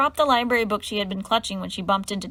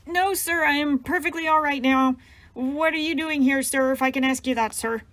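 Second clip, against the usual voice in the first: higher, stiff and mechanical, straining not to cry; robotic, holding back tears; 4 semitones higher, 3 dB louder than usual. Acted. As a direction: recite it like a robot to keep from sobbing. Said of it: "Mary spoke robotically".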